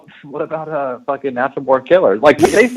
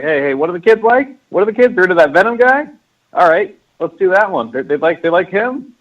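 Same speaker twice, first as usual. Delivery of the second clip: put-on higher-pitched, clueless old exec asking around; mock old executive; 5 semitones higher than usual. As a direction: lightly imitate an out-of-touch old boss. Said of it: "It's some old fuck being like".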